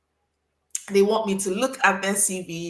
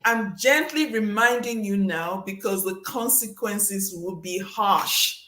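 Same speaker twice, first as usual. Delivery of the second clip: veiled threat. Retold or imitated. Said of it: "it's like".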